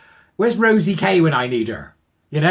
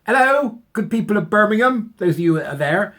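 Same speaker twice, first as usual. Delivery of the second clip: higher, louder mock hail to a crowd; calling out; 6 semitones higher, 5 dB louder than usual. Vlogger calling out to the people of Birmingham, loud and raised. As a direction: hail the whole city like a town crier.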